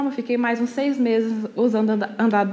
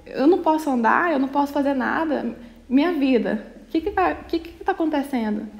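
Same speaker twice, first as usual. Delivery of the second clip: distressed confusion; 3 semitones higher than usual. Retold or imitated. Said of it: "olhava no espelho e falava assim".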